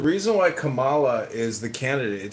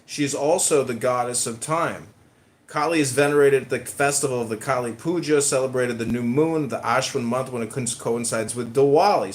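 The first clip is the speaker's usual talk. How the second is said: reading aloud. Acted. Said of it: "It says".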